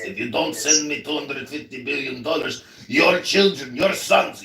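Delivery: put-on a lightly accented pleading president voice; mock foreign leader. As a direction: beg for weapons money as a put-on leader. Mock foreign leader asking money.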